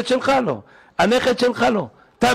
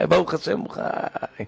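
softer, slow thankful murmur; soft grateful relief; 5 dB quieter than usual. Retold or imitated. Doctors repeat to the father that the baby lives, soft and slow. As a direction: let the thanks sink in quietly.

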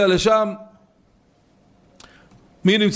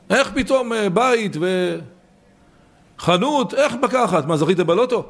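a touch of teasing astonishment; mock amazement. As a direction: gush in disbelief at the new house. Neighbor marvels at sudden wealth.

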